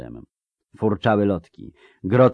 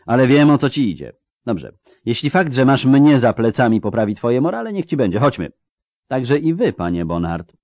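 raised, forceful commanding voice; imperious wizard; 5 semitones higher, 5 dB louder than usual. Acted. Wizard ordering his allies to come along, imperious. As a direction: grant it grudgingly, then order them along.

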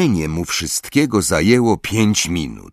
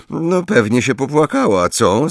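higher, sour question; bitter; 7 semitones higher than usual. A narrator's reading. Harry bitterly asking Ron about Cho, sour. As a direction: let the bitterness leak through. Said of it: "zapytał z goryczą Harry".

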